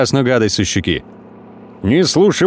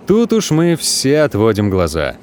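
ordinary delivery, nothing marked

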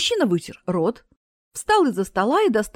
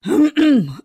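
loud throat clearing; 5 semitones higher, 7 dB louder than usual. Acted. Mic check over speakers.

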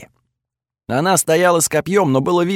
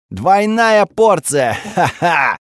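gleeful shout; 4 semitones higher, much slower than usual. Acted. Ally gleefully yells during attack.

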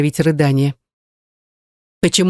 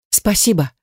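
sobbing; 4 semitones higher than usual. A narrator's reading. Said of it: "всхлипнула я ещё раз".

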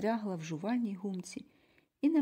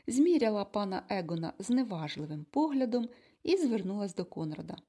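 plain reading voice

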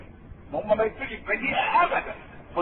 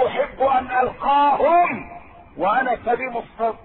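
emphatic quote; 3 semitones higher, 5 dB louder, slower than usual. Acted. Preacher quoting Prophet with emphasis.

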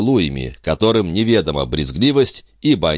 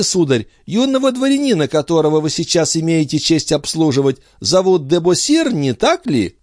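put-on high, eager small boy; little boy; 11 semitones higher than usual. A narrator's reading. Son telling parents about the coin, high childish. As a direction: answer like a proud little child.

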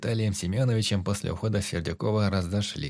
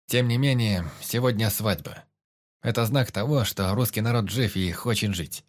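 loud and clear. Acted. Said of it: "я говорил громко".

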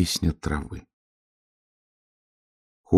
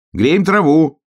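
much higher, loud shout; 10 semitones higher, 6 dB louder, slower than usual. A narrator's reading. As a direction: shout back up the hill. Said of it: "крикнул заяц". (громкий высокий крик)

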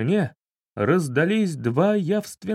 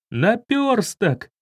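higher, slow delighted cry; joyful exclamation; 7 semitones higher, much slower than usual. Acted. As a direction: greet the lost friend gladly. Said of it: "хором воскликнули друзья". (радостный возглас)

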